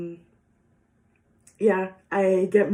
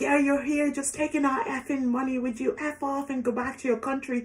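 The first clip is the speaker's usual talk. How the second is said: put-on drunk man; 5 semitones higher, 4 dB quieter than usual. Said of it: "you could tell he was a bit drunk".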